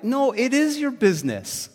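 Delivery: Paul voiced as a stern insistent teacher; emphatic apostle. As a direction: correct them with a forceful no. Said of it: "But Paul's like".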